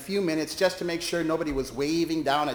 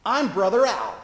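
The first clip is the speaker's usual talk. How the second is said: higher, louder proud announcement; shout; 6 semitones higher, 5 dB louder than usual. Retold or imitated. Preacher proclaiming himself to the chaplain, loud shout. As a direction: boom out the name. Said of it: "he shouted".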